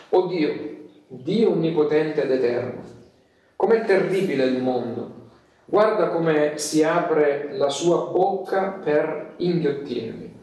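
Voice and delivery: measured, earnest prayer with long pauses; solemn prayer. Acted. Luther alone in his cell praying to God, solemn prayer. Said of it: "e lui pregò così".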